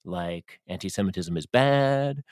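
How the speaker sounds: lightly voiced smug bigot; mocking right-wing guy. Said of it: "claim that they're just asking questions".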